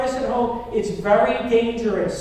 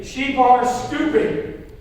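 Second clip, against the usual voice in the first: raised, slow, drawn-out declaration; emphatic call-out; 3 semitones higher, 4 dB louder, much slower than usual. Shown as a demonstration. Preacher leading the congregation to repeat after him, emphatic. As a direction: punch it out slowly for a crowd to repeat. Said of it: "say it like you mean it".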